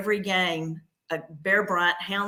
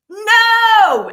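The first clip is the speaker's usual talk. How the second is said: a sharp high scream of no; 13 dB louder than usual. Retold or imitated. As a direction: cry out no like the worst news ever. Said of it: "I screamed it out".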